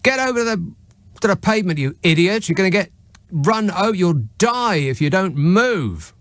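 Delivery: retelling the yell at the man in the road. Retold or imitated. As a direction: shout him off the road, pitch up high, stretch the last words. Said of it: "decided to yell at him a little louder".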